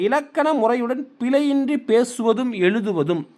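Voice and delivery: slow, measured definition for note-taking; slow dictation. Shown as a demonstration. Teacher dictating a grammar definition to students, slow. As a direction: read it slowly so they can write it down. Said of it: "தயவு செஞ்சு எழுதி வச்சுக்கோங்க".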